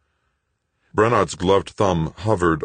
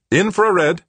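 sharp high snapped order; 7 dB louder than usual. A narrator's reading. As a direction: bark the word out curtly. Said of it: "Brenard snapped".

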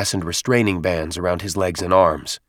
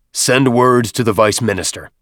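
louder, proud commanding voice; 3 semitones higher, 5 dB louder than usual. Acted. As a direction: command with swelling pride. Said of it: "his chest swelling".

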